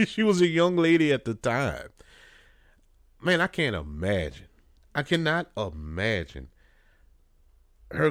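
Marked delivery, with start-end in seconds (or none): 0.0-1.9 chuckling through the words, a little higher and brighter; laughing. Real, not acted. Amused vlogger chuckles while correcting himself about her age.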